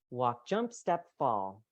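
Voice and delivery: up on jump, down on fall; walk jump step fall pattern. Shown as a demonstration. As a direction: step the pitch up then let it fall. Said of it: "this is a little more natural".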